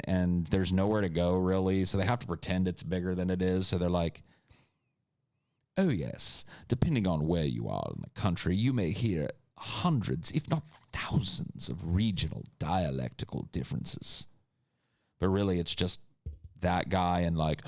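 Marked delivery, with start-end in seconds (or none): 5.8-14.3 grand high British, lingering on the big numbers. Acted. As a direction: play a self-important high British speaker. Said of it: "there's just high British and mudfish British".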